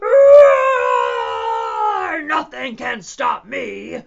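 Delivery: loud, boastful dinosaur shout; roaring dinosaur. Acted. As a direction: roar it out as an unstoppable little dinosaur.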